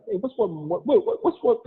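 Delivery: high, giggly false starts; imitated cracking up. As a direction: act out trying and failing to ask without laughing. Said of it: "I used to just crack up".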